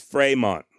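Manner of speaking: Fremont said fray-MON, French style with a nasal final vowel and no t; French pronunciation. Shown as a demonstration. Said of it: "the way that he and his father would have likely said the name".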